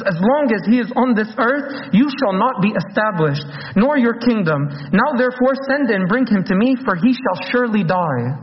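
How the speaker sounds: retold angry decree, pitch lifted; mad king. Saul rebuking Jonathan for defending David, mildly acted anger. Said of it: "He got so mad at Jonathan".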